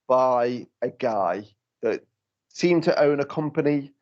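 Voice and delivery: words pushed through clenched teeth; through gritted teeth. Real, not acted. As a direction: hold back a swear, jaw locked. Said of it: "I'm gritting my teeth".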